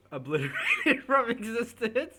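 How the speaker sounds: high, loud, slow laughing echo of the words; laughing disbelief. Real, not acted. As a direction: repeat it back, cracking up.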